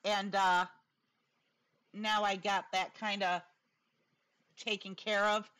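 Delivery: whistling s from a new dental plate; talking with a slight lisp around a tooth. Real, not acted. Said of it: "excuse the lisp I've got".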